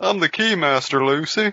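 put-on dopey deputy voice. Doing voices with others, speaking as the Keymaster in an Andy from Twin Peaks voice. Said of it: "All your voices have just devolved into Andy from Twin Peaks".

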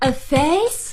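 rising tune on "face", pitch lifted high.

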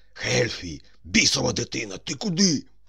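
scary, frightening, hoarse whisper. A commander calls after a boy who rushed out from behind the shields, scary hoarse whisper. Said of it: "прошепотіти страшним, хрипким голосом".

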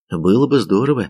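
ordinary delivery

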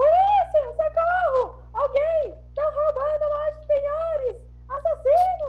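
crying out loudly. Playing a woman on a crowded London street, shouting for help. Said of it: "Então eu vou gritar".

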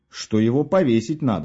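ordinary delivery

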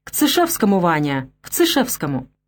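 plain reading voice

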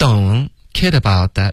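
put-on rushed, broken "don't kid about that" with mid-phrase pause. Demonstrating a phrasing to avoid: pause midway through don't kid about that. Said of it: "不能中间顿这样。".

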